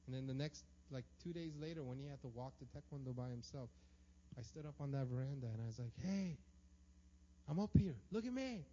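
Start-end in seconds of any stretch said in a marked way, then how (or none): 6.1-8.7 loud call from above. Retold or imitated. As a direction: call down to the boy on the street. Father calling down from veranda.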